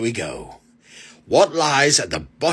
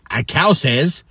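high, slow drawn-out moo; mooing cow; 11 semitones higher, 4 dB louder, much slower than usual. Acted. Knock knock punchline.

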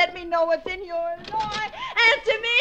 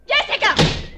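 calling out; 3 semitones higher, 8 dB louder, slower than usual. Acted. Calling for sister.

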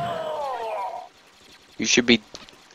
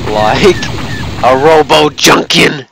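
excited announcement; 3 semitones higher, 5 dB louder, slower than usual. Real, not acted.

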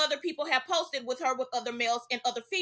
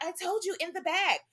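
softer, dismissive gum-smacking reply; eye-rolling sass; 2 semitones higher, 5 dB quieter than usual. Retold or imitated. Jaden brushing off Blue about the baby's room, softer and sassy. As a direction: brush him off with an eye roll. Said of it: "rolled her eyes and was smacking it".

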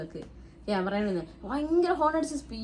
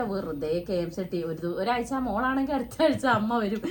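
teasing mockery; slower than usual. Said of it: "കളിയാക്കിക്കൊണ്ടിരിക്കുകയാണേ".

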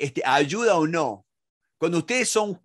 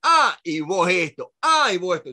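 defensive mock retort; 3 dB louder than usual. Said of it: "es como que alguien te está juzgando".

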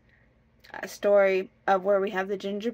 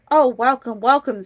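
loud, delighted storybook fox; hearty, emphatic welcome; glad welcome; 3 semitones higher, 8 dB louder than usual. Acted. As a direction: greet your dinner eagerly. Fox greets his prey gladly.

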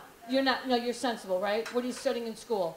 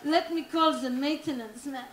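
French porn actress. Acted. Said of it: "She's like".

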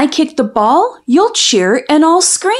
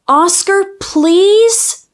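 pleading; 6 semitones higher, much slower than usual. Acted. Child begs dog to talk.

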